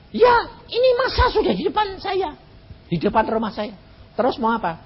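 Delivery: high, shouted panic; panicked caller. Retold or imitated. Frightened caller tells the pastor the mob is outside: high panicked shout. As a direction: cry out that they are at the door.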